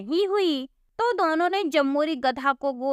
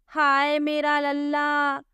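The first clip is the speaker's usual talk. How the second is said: slow, drawn-out mock wail; hammed-up crying mother; wailing wife; 3 semitones higher, slower than usual. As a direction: moan for her little one. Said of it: "रोने लगी".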